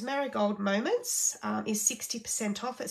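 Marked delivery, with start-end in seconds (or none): 0.0-1.4 slow and deliberate, each syllable of "Marigold Moments" placed; careful slow retry. Real, not acted. Retrying the tricky product name for viewers, slowly and carefully. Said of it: "I get very tongue-tied with all these names".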